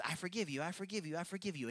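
glib, rote apology-acceptance; insincere forgiveness. Acted. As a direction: rattle it off without meaning it. Voicing forgiveness only from the head.

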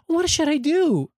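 high, slow, helpless mock whine; clueless co-pilot. The mocked co-pilot asks what to do in a high, slow, helpless voice. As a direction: play her lost and dithering. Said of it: "She was looking like".

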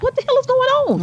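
high, fast mock panic; retold alarm. Aunt retelling her panic over a screaming baby, high and fast. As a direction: squeak it out in disbelief. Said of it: "I was just like".

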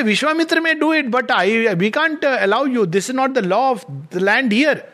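a hint of stern gods turning him away; lightly voiced gatekeeper god. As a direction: bar the door with a touch of officiousness. Gods refuse Vishwamitra's king at the door.

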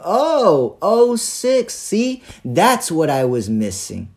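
high, loud, exaggerated 'oh', slowing at the end; mock realisation. Customer answering the slow-talking clerk, in loud mock realisation. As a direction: act out a sarcastic penny-drop.

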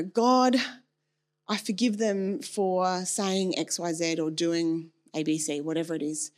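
slow, measured, dutiful prayer. Shown as a demonstration. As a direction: pray it properly, slowly, as you should. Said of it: "I don't say it like that".

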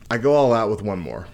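talking around a wad of gum; words tripped up by gum; chewing gum. Real, not acted. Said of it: "I got gum in my mouth and it's tripping me up".

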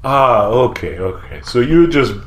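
lightly voiced gambler startled into talk; gambler NPC. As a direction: play a friendly betting regular.

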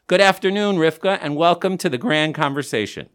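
talking through a face mask; words muffled by a mask. Real, not acted. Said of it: "recording this during a pandemic through masks".

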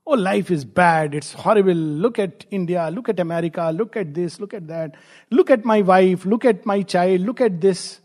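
mock litany of complaints; lightly acted chronic complainer; grumbling. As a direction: list grievances like an eternal grumbler. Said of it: "eternal grumblers".

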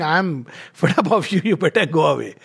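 lightly voiced exasperation with a laugh; half-laughing, mock annoyed brush-off; mock fed up. Lecturer voicing someone sending another away, mock annoyed. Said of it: "The second is saying".

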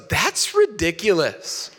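drawn-out, lightly imitated child's verdict; four-year-old daughter. Four-year-old daughter judging the storybook, slow imitated child voice. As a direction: stretch it out slowly like a small child. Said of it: "my daughter, four-year-old ... she goes".

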